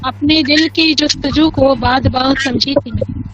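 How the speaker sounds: measured, lilting ghazal recitation; poetry recitation. Acted. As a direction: recite each couplet slowly for an audience.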